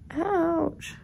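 a real wince as she moves; sharp little ouch; pained ouch. Real, not acted. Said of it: "If I move at all".

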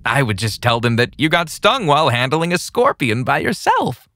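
cold menacing threat; creepy villain voice. Acted. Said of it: "he said".

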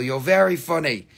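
dry sarcastic fake laugh; mock amusement.

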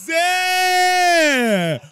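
high drawn-out goal scream; explosive goal commentary. Real, not acted. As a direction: call the scorer's name and hold the goal cry. Goal scream, calling the scorer.

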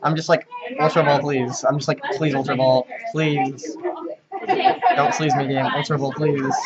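whiny begging for Ultra Ball. Pretend. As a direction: plead in a whiny voice. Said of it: "and then I'm gonna whiny voice".

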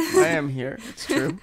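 mock high voice. Delayed joking reply.

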